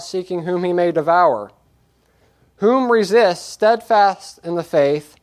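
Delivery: preacher reading scripture aloud with weight. Acted. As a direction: proclaim the verses to the congregation.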